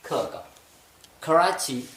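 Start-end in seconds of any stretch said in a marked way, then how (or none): 1.2-1.9 कराची said khərachi; aspirated k. Shown as a demonstration. Teacher modelling aspirated कराची. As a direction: puff the k of कराची. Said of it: "के को आपने sound दे दिया ख का".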